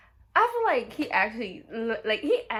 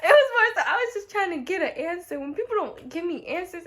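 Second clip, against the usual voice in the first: laughing, higher and louder through the words; 7 semitones higher, 7 dB louder than usual. Real, not acted. Teased by her friend, explaining through laughter. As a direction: explain yourself while cracking up. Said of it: "So you didn't learn your lesson".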